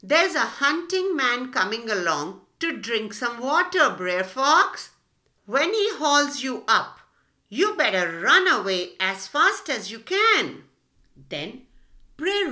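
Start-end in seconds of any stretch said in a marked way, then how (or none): 0.0-10.6 a loud teasing call down the well; mild shout down the well. Acted. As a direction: warn the fox with mock helpfulness. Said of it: "shouted down to Brer Fox".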